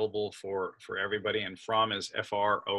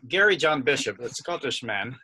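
a half-hearted, badly faked Scottish accent; a hint of a hammed-up Scottish brogue; 3 semitones higher, 6 dB louder than usual. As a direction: put on a quick mock Scottish accent for the author's name. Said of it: "that was a bad Scottish accent".

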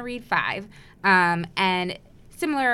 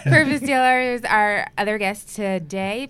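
louder host announcement; loud introduction; 8 dB louder than usual. Real, not acted. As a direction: announce the guest loudly. Restarting intro after interruption.

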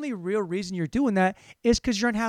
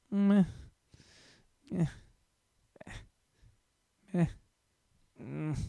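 short, unimpressed "meh" noises with long gaps; weak little grunts, fading to a soft mm; feeble grunts; 6 dB quieter than usual. Acted. Comic bit voicing his talking body part, feeble grunts. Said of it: "if my dick could talk".

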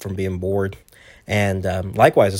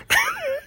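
mock cartoon laugh. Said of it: "do his laugh".

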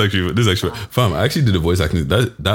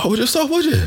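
put-on Irish traveller accent.

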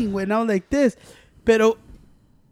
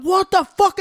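retold shocked outburst; 10 semitones higher, 6 dB louder, slower than usual. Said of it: "Kareem got".

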